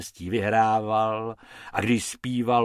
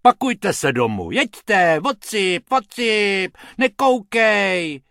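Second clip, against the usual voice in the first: higher, louder angry shooing; 8 semitones higher, 6 dB louder, slower than usual. Acted. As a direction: chase the pests away. Hrubec chasing rabbits off.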